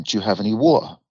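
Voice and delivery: British "water", t kept, no final r; English accent on "water"; British pronunciation. Retold or imitated. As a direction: ask for WATER in a London accent. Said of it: "the way you pronounce words".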